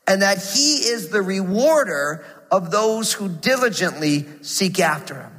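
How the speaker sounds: slow, measured scripture reading. Acted. Pastor reading Hebrews eleven to the church, slow and measured. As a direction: read each phrase deliberately.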